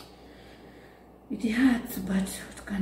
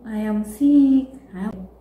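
mock crying; 8 dB louder than usual. Someone making a fuss over a small illness, mock crying. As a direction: ham up self-pity. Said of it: "here comes that crying for you".

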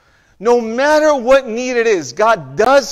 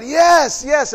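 a quick, higher cheer from the crowd; excited cheer; 6 semitones higher than usual. Retold or imitated. Preacher imitating the crowd's excited yes. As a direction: echo the cheering crowd, lifting the pitch.

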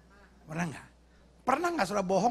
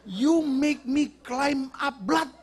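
loud, slow, higher mock outrage; mock angry Indonesian; 5 semitones higher, 5 dB louder, much slower than usual. Indonesian scolding an American in literal English, hammed-up anger. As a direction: exaggerate each word, slowly and loudly. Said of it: "kata orang Indonesia ke Amerika".

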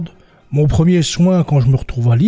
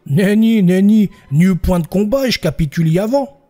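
higher, a lightly voiced country bumpkin; rustic peasant witness; 4 semitones higher than usual. Paysan répond au président du tribunal, naïf et haut perché. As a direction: play the simple peasant defending himself.

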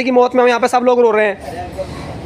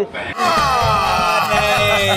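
mock wail; 4 semitones lower, 5 dB quieter, much slower than usual. Old man drawn-out wail.

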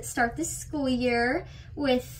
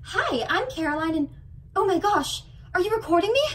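put-on naive farm girl; 5 semitones higher, faster than usual.

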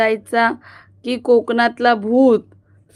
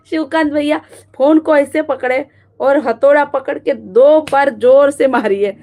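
mock instruction; 2 semitones higher, 4 dB louder than usual. Joking instructions to hit phone.

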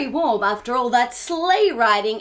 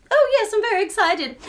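puppet voice; 6 semitones higher, faster than usual. Acted. Patrice puppet answers.

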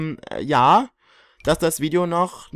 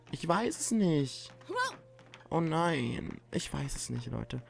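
fading helpless; 11 dB quieter, slower than usual. Real, not acted.

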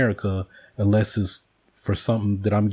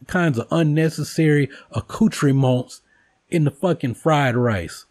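mock outrage, raised; 5 semitones higher than usual. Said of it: "I'm like".

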